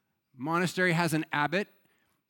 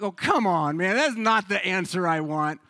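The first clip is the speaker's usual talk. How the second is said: mock-exasperated pleading, a bit louder; exasperated protest; 4 dB louder than usual. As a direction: act out arguing with an unbudging monk. Retold protest at monk's refusal.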